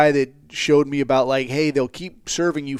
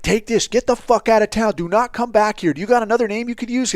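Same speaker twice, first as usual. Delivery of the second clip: raised, firm instructions; firm commands; 7 semitones higher than usual. Retold or imitated. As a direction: hurry him along. Sending informant out of town.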